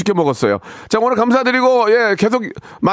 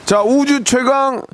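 booming prize announcer; 3 semitones higher, slower than usual. Acted. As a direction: build up the big reveal. Announcing the contest winner.

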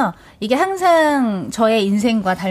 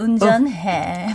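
Driver Kim catchphrase; much slower than usual. Retold or imitated. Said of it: "요걸 한번 덧붙여야 돼".

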